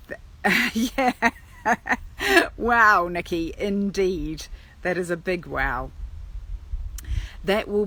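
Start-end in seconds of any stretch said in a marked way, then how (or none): none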